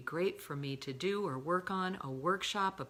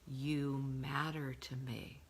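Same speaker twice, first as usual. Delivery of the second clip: slow, gentle you matter; tender affirmation; 2 semitones lower, much slower than usual. Shown as a demonstration. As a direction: say it slowly with love.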